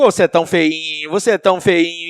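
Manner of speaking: doting pet-talk to a dog; playful sing-song fussing over a pet; thin little voice. Acted. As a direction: coo sweetly at the dog, insult or not. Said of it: "se eu falar fininho".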